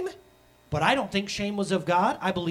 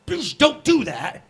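slow, high mock plea, a lot louder; weak pleading dad; 8 semitones higher, 8 dB louder, slower than usual. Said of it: "if I just went".

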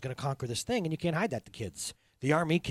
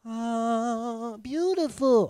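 high, airy mock wonder; a dreamy, mocking "ah, beautiful"; lightly hammed-up awe; mock awed sigh; 6 semitones higher, much slower than usual. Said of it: "I don't think they're".

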